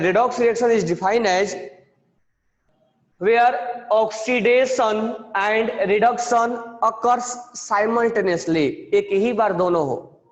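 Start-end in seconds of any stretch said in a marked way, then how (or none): 0.0-8.7 slow, careful definition read out; dictation. Shown as a demonstration. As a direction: spell it out for the class. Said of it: "मैं पहले बोल रहा हूं, ध्यान से सुनना".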